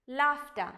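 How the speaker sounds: "laughter" as LAAF-tuh; model pronunciation. Shown as a demonstration. Teacher reading the next word, careful model pronunciation. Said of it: "How do you read it?".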